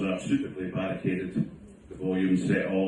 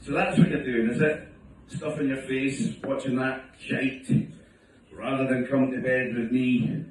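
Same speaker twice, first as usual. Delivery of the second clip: mock wife reproach; 2 semitones higher than usual. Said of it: "she'd come down and say".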